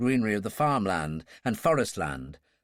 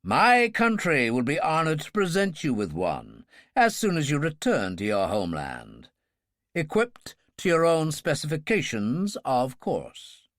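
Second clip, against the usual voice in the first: indulgent. Acted. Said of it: "the President said indulgently".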